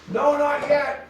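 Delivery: high, loud reply called across the room; called back. Retold or imitated. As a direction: yell it over your shoulder mid-chase. Answering while chasing the bat.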